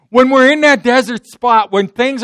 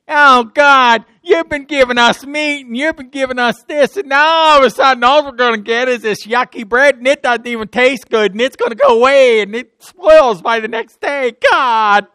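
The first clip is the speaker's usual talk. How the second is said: louder, higher whining complaint; grumbling Israelites, louder and higher; whiny grumbling; 4 semitones higher, 4 dB louder than usual. Acted. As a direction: moan at God like a spoiled crowd. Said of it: "They grumbled".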